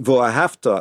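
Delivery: "V'ohavta" stressed on "hav", with a lighter final "ta"; contrasting stress placement. Shown as a demonstration. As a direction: lean on the "hav" in "V'ohavta" and let "ta" drop. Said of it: "So if you say".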